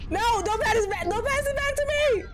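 high, urgent protest; frantic refusal. Real, not acted. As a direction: refuse in alarm, pitch climbing. Refusing to take creature back.

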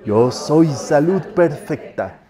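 slow, measured group chant, held back. Shown as a demonstration. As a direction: stretch each word evenly without pushing. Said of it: "Más bajito, a ver".

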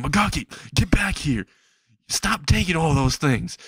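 high-pitched cop calling after a thief; mall cop. Acted. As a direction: order him back in a put-on voice. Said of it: "a mall cop is chasing Magaki out".

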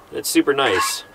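ordinary talk, nothing marked

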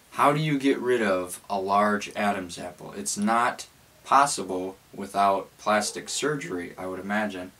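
talking with a sore lip, mouth barely open; cold sore on lip. Real, not acted. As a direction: speak through a cold sore, lips kept narrow. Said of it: "if I'm talking strange, it's because I have a cold sore".

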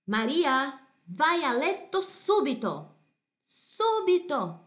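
loud, high, firm mother's command, SUBITO drawn out slowly; stern order to bed. Acted. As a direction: order Maria to bed right now. Mother sends child to bed.

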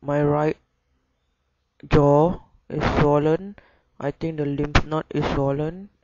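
talking through a barely open jaw; closed mouth talking. Real, not acted. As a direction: speak with your jaw stiff and nearly shut. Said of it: "I can't really open my mouth and talk".

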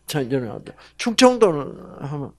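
normal talking voice

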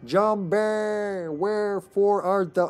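Shakespearean call. Pretend. Theatrical call to teammate zombie.

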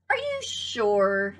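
slow, drawn-out skeptical question; doubtful. Acted. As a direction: stretch it out, unconvinced. Doubting duck questions hen.

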